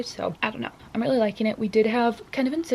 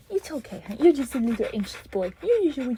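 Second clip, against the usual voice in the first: soothing; 3 semitones higher, faster than usual. Real, not acted. Comforting the dog again.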